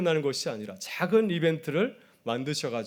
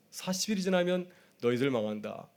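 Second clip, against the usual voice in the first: playfully; 4 semitones higher, 4 dB quieter than usual. Retold or imitated. Prophet teasing the city of Nineveh, playful warning. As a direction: toss off 망한다 like a cheeky joke. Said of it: "이렇게 장난스럽게 복음을 전하였는데".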